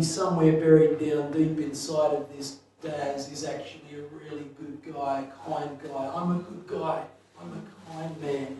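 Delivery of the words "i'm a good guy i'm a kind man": self-convincing. Retold or imitated. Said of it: "as if to try to convince himself".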